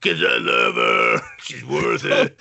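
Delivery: mock tearful. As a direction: pretend to choke up over her. Mock tearful vow over golden heart.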